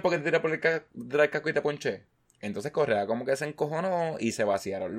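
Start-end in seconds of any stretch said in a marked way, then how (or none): 0.0-2.1 loud, high, quick jeer; mocking taunt. Imitating the pitcher taunting Correa after the strikeout, loud fast jeer. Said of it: "Le hizo así como que".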